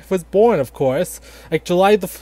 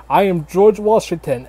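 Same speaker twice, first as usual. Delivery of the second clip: mock presidential voice. Grandpa voicing George Washington.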